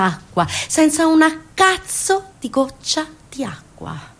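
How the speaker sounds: slow, unvoiced whispered curse; bitter whisper. Real, not acted. Narrator telling listeners of the dry tap, in a slow bitter whisper. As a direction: breathe it out slowly, raw with anger. Bitter stress on missing water.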